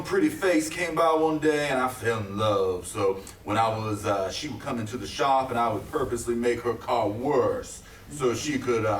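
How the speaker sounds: ordinary delivery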